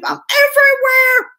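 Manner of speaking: high, breathless stage whisper; excited whisper. Real, not acted. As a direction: whisper it like a thrilled secret. Boasting about being on both platforms.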